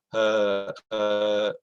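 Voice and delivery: choked up with real tears; voice catching. Real, not acted. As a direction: voice breaking into a sob. Father recalls his stillborn daughter.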